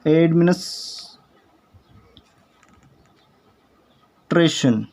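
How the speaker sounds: एडमिनिस्ट्रेशन stretched out very slowly; very slow एडमिनिस्ट्रेशन for learners; very slow model pronunciation. Shown as a demonstration. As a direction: draw out every syllable of एडमिनिस्ट्रेशन. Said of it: "शुद्ध बोलते हैं".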